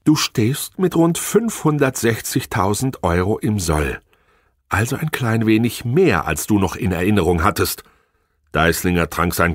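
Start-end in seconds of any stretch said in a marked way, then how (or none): 0.1-7.8 high, mock-sweet cooing; sugary sweet. Wife sweetly rubbing in his debt, mock-sweet. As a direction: sweeten every word with poison. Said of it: "Ihre Stimme wurde plötzlich zuckersüß".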